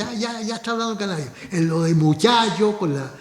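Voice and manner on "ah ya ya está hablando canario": mocking. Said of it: "se burla y dice".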